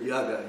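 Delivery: "yaga" said the teacher's way; Prabhupada's pronunciation. Retold or imitated. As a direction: pronounce "yaga" as two short syllables, no N. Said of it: "That's how he pronounced it".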